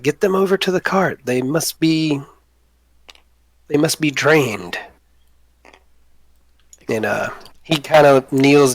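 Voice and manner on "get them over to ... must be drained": goblin orders. Acted. Boblin orders the big ones, pitched up. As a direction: hurry them to the cart. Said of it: "He's like".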